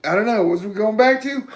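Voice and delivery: a playful "hold on there" as if interrupting; mildly hammed-up outrage; mock indignant protest. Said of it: "I'm like".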